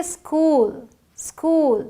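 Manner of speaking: स्कूल opening on a pure s, no i before it; correct pronunciation. Shown as a demonstration. Teacher corrects learners' habit, स्कूल modelled as "skool". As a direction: say स्कूल as "skool", starting on the hiss of s. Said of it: "ये आधा स है".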